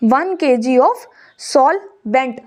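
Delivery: one K G of solvent, each word drawn out very slowly; very slow dictation. Shown as a demonstration. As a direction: repeat it slowly so they can write it. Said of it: "repeated slowly for writing".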